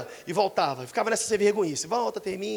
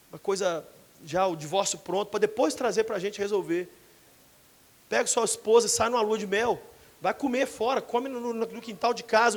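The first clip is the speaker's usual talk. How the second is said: gentle counsel; 4 semitones lower, 4 dB quieter than usual. Acted. Pastoral counsel softly.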